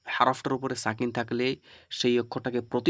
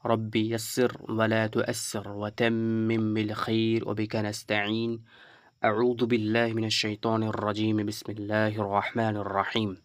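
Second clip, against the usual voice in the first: slow, measured recitation with drawn-out vowels; Arabic prayer recitation; much slower than usual. Real, not acted. Teacher opens a Quran lesson with supplication, slow recitation. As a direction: recite the supplication slowly and evenly.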